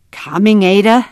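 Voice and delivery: moderately loud father's call; yelling from afar. A narrator's reading. Papa answers his daughter from far away, contained yell. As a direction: call back across a distance, voice lifted. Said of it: "she heard Papa yelling".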